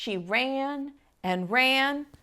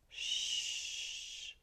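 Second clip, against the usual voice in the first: unvoiced hush; hushing shh; 14 dB quieter than usual. A narrator's reading. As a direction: shush her softly. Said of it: "he said".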